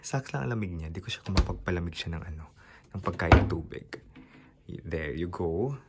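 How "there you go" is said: ordinary delivery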